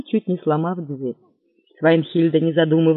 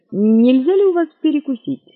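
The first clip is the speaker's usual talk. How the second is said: careful, raised voice asking for food; timid request to the barmaid; cautious ask; 8 semitones higher, 4 dB louder than usual. Acted. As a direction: ask gingerly, a little higher. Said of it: "осторожно спросил Лафайет".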